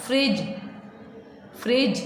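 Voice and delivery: फ्रिज ending in a plain j sound, no d; silent d in fridge. Shown as a demonstration. Teacher modelling फ्रिज with no d sound. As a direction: say फ्रिज with the d unspoken. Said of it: "डी alphabet आ रहा है लेकिन उसकी आवाज़ बिल्कुल नहीं".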